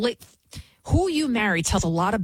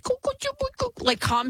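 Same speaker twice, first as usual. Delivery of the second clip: cooing to a kitty. Retold or imitated. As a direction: coo like petting a kitten. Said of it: "She's, like, petting the kitty".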